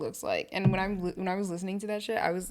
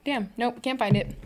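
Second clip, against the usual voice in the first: whispered aside; 3 semitones higher, 5 dB louder than usual. Real, not acted. Searching, gives up.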